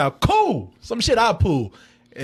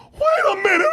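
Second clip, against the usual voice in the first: mock stunned girlfriend; 11 semitones higher than usual. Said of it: "She's like".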